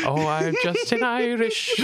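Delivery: mimicking the bit through tears of laughter; laughing imitation. Host quoting his friend's Irish line, laughing. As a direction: quote it while you crack up. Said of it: "Holy fuck".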